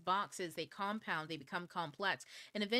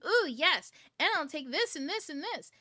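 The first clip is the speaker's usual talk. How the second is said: higher, much louder eager squeal of delight; delighted ooh; 10 semitones higher, 7 dB louder than usual. Retold or imitated. Accepting fun offers from her guides, a high excited squeal. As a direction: grab everything on offer like a kid in a candy shop. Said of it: "And I go".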